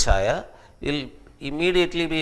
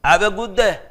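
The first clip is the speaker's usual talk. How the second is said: imitating African American English; 3 semitones higher, 3 dB louder than usual. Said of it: "This is the English they speak".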